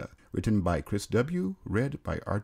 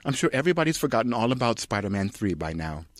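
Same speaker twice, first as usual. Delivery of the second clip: higher, lightly voiced mother; a hint of a dry, teasing mum; Charlotte Rampling; 3 semitones higher than usual. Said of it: "Charlotte Rampling".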